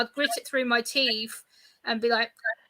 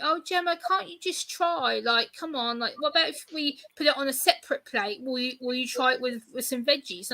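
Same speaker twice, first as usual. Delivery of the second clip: coaxing parents; 3 dB quieter than usual. Retold or imitated. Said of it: "my mum, dad always say".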